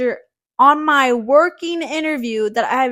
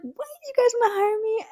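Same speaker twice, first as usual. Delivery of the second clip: much higher, incredulous happy question; delighted disbelief; 12 semitones higher than usual. Retold or imitated. To the office manager offering the job, delighted disbelief. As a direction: ask it as if it can't be true. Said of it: "I was just really surprised".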